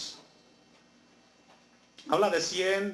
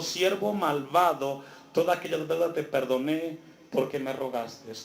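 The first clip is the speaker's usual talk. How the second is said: stern master. Acted. Master rebukes wicked servant.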